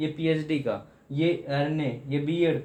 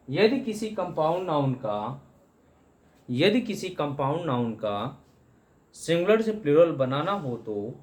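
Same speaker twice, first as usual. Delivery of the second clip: dictation. Shown as a demonstration. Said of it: "rule में लिखिएगा आप लोग".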